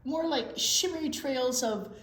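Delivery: playful snail character with a touch of French flair; a vain snail fishing for compliments; flirty snail. Acted. Snail Escargot flirting with his travel companion, playful and teasing.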